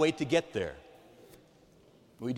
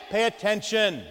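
building to a shout; 7 semitones higher, 7 dB louder than usual. Acted. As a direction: pay attention, ogni volta più forte. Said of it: "gets louder and louder".

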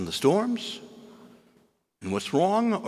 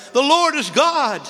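high, loud, slow proclamation; crying out; 9 dB louder than usual. Acted. Astonished people fall down and cry out, loud and slow. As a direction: shout it out like an awed crowd. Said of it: "they cry out".

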